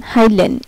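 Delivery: "হাইলেন" with ei said as ai; German word Heilen. Shown as a demonstration. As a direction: read out the example word. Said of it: "ই আই L ই N".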